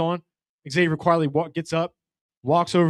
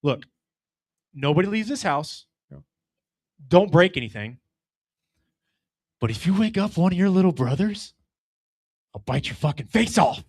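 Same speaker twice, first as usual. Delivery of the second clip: calm. Retold or imitated. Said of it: "as calmly as I possibly can".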